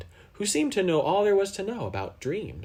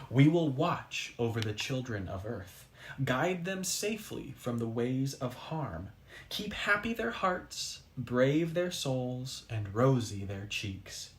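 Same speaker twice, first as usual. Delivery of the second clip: solemn oath. Acted. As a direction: speak each line like a sacred vow.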